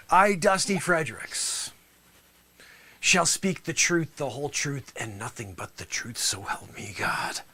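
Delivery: starts plain, sinks to a whisper; emotional oath fading from normal to whisper. Shown as a demonstration. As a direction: let the oath die away into a whisper. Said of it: "you gotta almost come down to a whisper".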